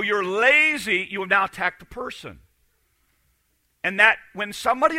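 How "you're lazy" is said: slow blunt accusation. Retold or imitated. The same accusation, said slowly.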